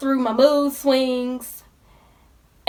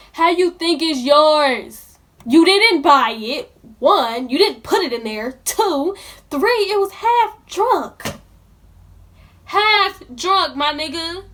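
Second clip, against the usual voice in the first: louder, stressing each point; indignant; 2 semitones higher, 4 dB louder than usual. Real, not acted. Listing offenses against the juice thief, indignant. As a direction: count off the offenses in disbelief. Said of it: "now I'm mad".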